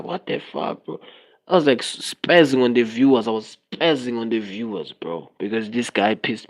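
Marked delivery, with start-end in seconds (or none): 0.0-1.0 retold outburst. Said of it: "Like, I was like".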